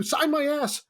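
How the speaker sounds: high cheeky frat bro; frat boy. Retold or imitated. Frat boy in the first take, high cheeky demand. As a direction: toss it off like a dumb prank. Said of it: "I run up and I do".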